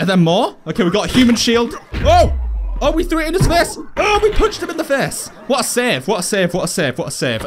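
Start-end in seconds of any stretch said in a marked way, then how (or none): 1.9-5.3 high, astonished whooping delivery; excited, pitched-up play call; thrilled outburst. Real, not acted. Reacts to a lucky punch. 5.5-7.4 each repeat stepping lower; rapid repeats winding down to low; descending repeated cheer. Real, not acted. Repeats the phrase after the punch.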